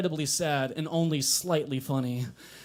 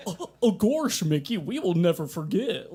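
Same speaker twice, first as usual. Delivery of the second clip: RFK Junior impression. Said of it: "That's my R F K Junior impression".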